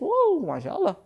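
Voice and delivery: high, gushing wow; mock amazement. Preacher mimics parents in awe of English skills. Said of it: "anak kita pandai berbahasa Inggris".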